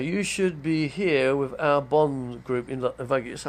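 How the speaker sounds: slow it right down and project; quoted friend. Retold or imitated. Big voice actor inviting him to join, slow projected voice. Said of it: "What's he say?".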